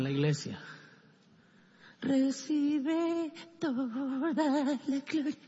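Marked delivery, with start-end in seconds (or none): 2.0-5.4 high, slow, wailing worship voice; mock fervent prayer. Churchgoer praying showily in church, hammed-up tearful worship. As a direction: overdo the pious crier.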